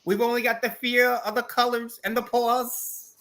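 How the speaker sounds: put-on high, slow old-time orator voice; speech impression. Answering the Kennedy bit with another impression, slow oratory. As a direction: deliver a mock presidential address. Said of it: "one or two good impressions".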